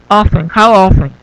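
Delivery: "often" as OFF-en both times, no T; silent T. Shown as a demonstration. Teacher repeating the correct form, "often" without T. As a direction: say "how often" with the T of "often" dropped. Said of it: "es muda, no se pronuncia".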